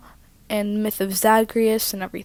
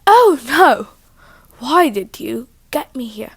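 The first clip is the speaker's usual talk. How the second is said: put-on teenage girl voice, louder opening wail; Persephone; 4 dB louder than usual. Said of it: "teenager, right?".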